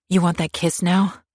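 bait him with a sneer; defiant taunt. Acted. Girasol taunts her attacker.

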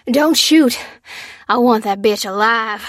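high, loud order to his men; commanding yell. A narrator's reading. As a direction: shout across the yard. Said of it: "yelled the leader".

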